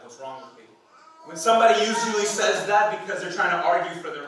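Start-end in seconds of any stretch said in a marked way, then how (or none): 0.0-0.6 softer, low, sarcastic challenge. Shown as a demonstration. Someone defending their lifestyle, sarcastic challenge. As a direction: throw it back defensively with sarcasm. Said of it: "there's a sarcastic way of saying that".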